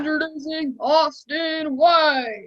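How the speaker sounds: slow, drawn-out ring announcer call; Michael Buffer voice. Pretend. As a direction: stretch the name out like a title fight. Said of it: "Michael Buffer".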